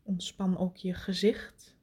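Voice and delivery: right in your ear. Acted. Intimate meditation cue, whispered.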